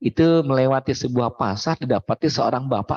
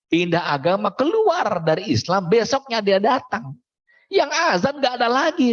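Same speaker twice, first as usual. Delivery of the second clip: dramatic story climax; 10 semitones higher than usual. Real, not acted. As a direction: build the drama as the muezzin falls.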